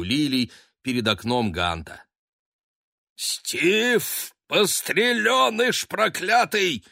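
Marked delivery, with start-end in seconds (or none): 3.2-6.8 put-on high, loud furious roar at the boy; father roaring at son on the roof. A narrator's reading. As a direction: bellow at him from the bed. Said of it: "взревел владыка дома".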